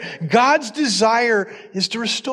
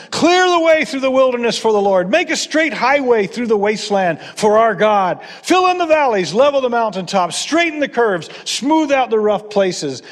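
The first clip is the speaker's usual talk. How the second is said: loud proclaiming call across the wilderness; shouting voice; 2 semitones higher, 4 dB louder than usual. Retold or imitated. Preacher voicing the prophet's voice, calling out loud. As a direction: call it out like a herald. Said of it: "it's the voice of someone shouting".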